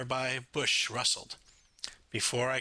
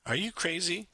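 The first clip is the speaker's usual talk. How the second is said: higher-pitched, incredulous question; 6 semitones higher than usual. A narrator's reading. Boy to friend over a risky plan, incredulous. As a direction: raise the pitch in disbelief.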